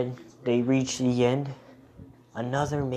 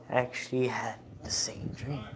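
whispering; 7 dB quieter than usual. Acted. Whispered storytelling aside.

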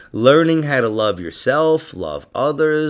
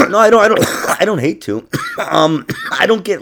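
coughing; 6 semitones higher, 4 dB louder than usual. Real, not acted. Coughing fit while answering.

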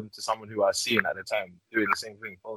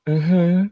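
breathy mm-hmm; 5 semitones higher than usual. Retold or imitated. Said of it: "like that".

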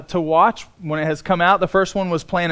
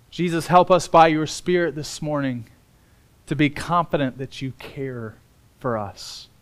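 prayer; 4 semitones lower than usual. Real, not acted. Pastor praying for the Spirit's help this morning, prayer.

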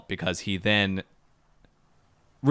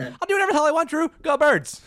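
defiant retort; 4 dB louder than usual. Retold or imitated. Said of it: "I was like".

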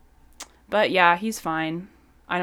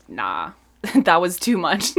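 laughing; 6 dB louder, slower than usual. Retold or imitated. Laughs while quoting herself.

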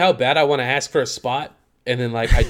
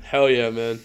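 deep voice; 4 semitones lower, slower than usual. Shown as a demonstration. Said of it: "That's my deep voice".

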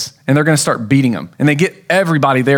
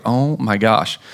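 exasperated; 5 semitones lower, slower than usual. Retold or imitated. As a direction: let the frustration deflate you. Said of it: "you're like".

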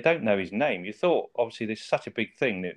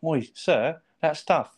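lightly voiced boy, pitched up; a higher-pitched imitation calling for attention; Jake Lloyd; 4 semitones higher than usual. Co-host quoting the boy addressing Rodney, lightly pitched-up voice. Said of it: "Jake Lloyd's computer. And he's like".

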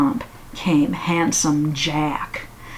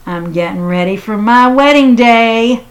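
eager wedding-day voice; excited bride; 2 semitones higher, 5 dB louder than usual. Acted. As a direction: squeal it like a giddy bride. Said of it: "she said".

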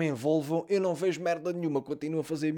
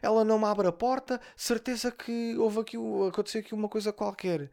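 neta aflita imitada; 6 semitones higher than usual. Retold or imitated. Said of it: "E ela a dizer assim".

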